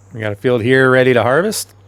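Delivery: hoarse, worn-out voice; losing voice. Real, not acted. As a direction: talk with a tired, scratchy throat. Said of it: "I'm losing my voice".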